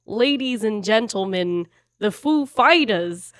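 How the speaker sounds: slow, drawn-out announcer voice; Christopher Walken impression. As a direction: draw it out like Walken. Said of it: "talks kind of weird in a New York accent".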